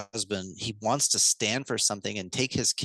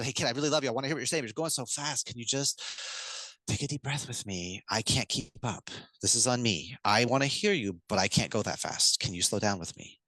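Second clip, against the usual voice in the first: put-on matching the kid's energy. Shown as a demonstration. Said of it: "You talk a little bit faster".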